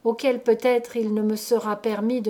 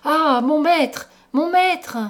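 high, loud, drawn-out wail; anguished cries, slow and high; servant crying out; 6 semitones higher, 6 dB louder, slower than usual. A narrator's reading. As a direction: wail for your master in despair. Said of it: "La fille de service criait".

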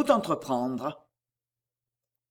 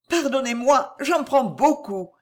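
higher-pitched, slowing, understated sigh of apology; mildly sorrowful heroine, pitched up; deep-sighing reply; 6 semitones higher than usual. A narrator's reading. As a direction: apologise softheartedly, drawing out the last words. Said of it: "dit-elle en soupirant profondément".

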